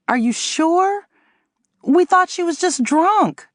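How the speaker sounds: high, slow Jamaican disbelief; a lightly voiced Jamaican man, rattled; stunned Jamaican husband. A narrator's reading. Husband questions the news, high Jamaican lilt. Otis surprised.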